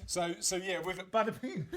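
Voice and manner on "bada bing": jokey bada bing in a light New York accent; mock New York accent. Host joking about New York time, mock New York accent. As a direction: toss in a hint of New York wiseguy. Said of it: "A very New Yorkie".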